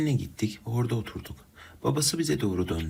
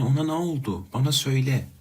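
loud, higher demand for answers; shouting; 5 semitones higher, 5 dB louder than usual. Retold or imitated. To Ali, desperate for news of Masume, shouting. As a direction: shout at Ali to tell you. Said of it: "Bağırdım ki".

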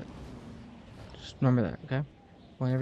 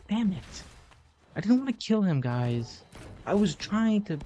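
mock shouting at the game; 4 semitones higher than usual. Real, not acted. Yelling at game character, apologizing.

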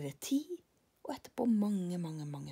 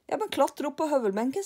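higher, louder breezy order; Karlsson instructs; 8 semitones higher, 5 dB louder than usual. Acted. Karlsson tells lillebror to climb the bench, higher. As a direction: tell him the obvious.

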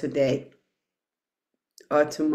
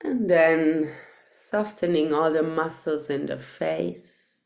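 unhurried guiding voice with long pauses; guided meditation. Real, not acted. Teacher settling meditators into loving-kindness practice, measured guided meditation voice. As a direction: lead them gently inward, phrase by phrase.

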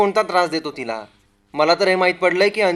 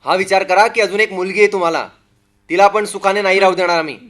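menacing threat; 5 dB louder than usual. Acted. Husband threatens an acid attack.

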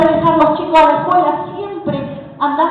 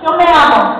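loud declaration; 7 dB louder than usual. Shown as a demonstration. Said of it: "Y decirle".

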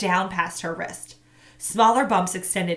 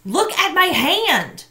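put-on loud, slow, higher girl's plea; urgent girl; 10 semitones higher, 8 dB louder, slower than usual. A narrator's reading. Girl begs boy to look at her wound. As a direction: make him look, slowly and loudly. Tamaya shows injured hand.

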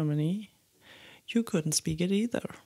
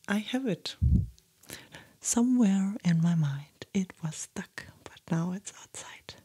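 ASMR whisper. Acted. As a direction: whisper gently, as if sitting right beside them.

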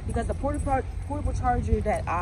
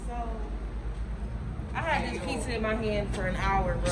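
muffled behind cloth mask; speaking with covered mouth; through a face mask; 5 dB quieter than usual. Real, not acted. Seen 0: Cloth mask covers mouth and nose throughout labelled words; references unmasked.

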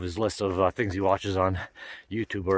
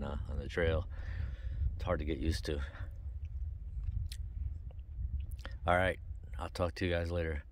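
tired low voice; 6 semitones lower, 13 dB quieter than usual. Real, not acted. Tired evening camp talk.

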